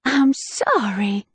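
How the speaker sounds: slow, breathy coy apology; flirty whisper. Acted. Spy flirts with Preston to distract him in a whisper. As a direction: bat your eyelashes with your voice. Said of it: "I flirted".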